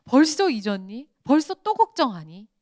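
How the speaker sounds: 크게 다그치듯 묻기; 답답하다는 듯 크게 되묻기; 다그치는 예수님. Retold or imitated. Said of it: "그러세요". (제자들에게 되묻는 예수님, 크게)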